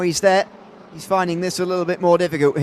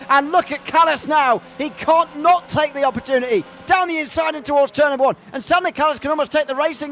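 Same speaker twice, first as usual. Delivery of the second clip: excited commentary; 5 semitones higher than usual. Real, not acted. Overtake chance live.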